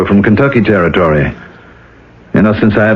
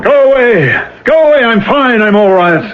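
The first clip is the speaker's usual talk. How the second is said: angry shout; 12 semitones higher than usual. Acted. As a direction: yell it at the door. He shouts her away.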